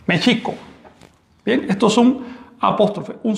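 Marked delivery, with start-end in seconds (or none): 0.1-0.5 "Mexico" as "Méchico", ch sound, glottal break; náhuatl pronunciation. Shown as a demonstration. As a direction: say "Mexico" the Nahuatl way, me-chi-co with a catch. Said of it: "el sonido real es este". ("Mexico" pronunciado mechico con saltillo)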